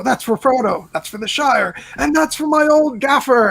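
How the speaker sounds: Sam's battle line. Retold or imitated. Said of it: "I just like the way he says".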